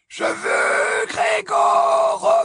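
a menacing, icy cry; high-pitched dark lord insisting; cold high demand. Acted.

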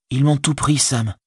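despairing Frodo. A narrator's reading.

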